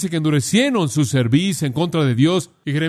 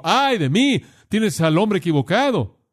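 mock lament; 5 semitones higher than usual. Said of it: "quien dijo".

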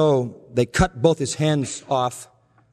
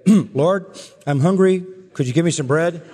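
a lightly raised, simple asking voice; childlike petition; 4 semitones higher, 3 dB louder than usual. Pretend. Preacher acting a simple prayer for bread, lightly childlike. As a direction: ask God plainly like a child asking for bread. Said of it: "you can say".

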